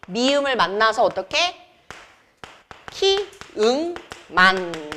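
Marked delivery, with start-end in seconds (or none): 2.9-5.0 "키, 응, 만" sounded out slowly; teacher slowly modelling "키, 응, 만" in separate beats; syllable-by-syllable demo. Shown as a demonstration. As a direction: draw out "키, 응, 만" one syllable at a time. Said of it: "요렇게".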